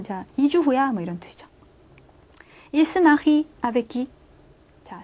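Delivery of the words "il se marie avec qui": slow French question, each word apart; unhurried 'Il se marie avec qui'; slow model question. Shown as a demonstration. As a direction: ask it slowly for learners.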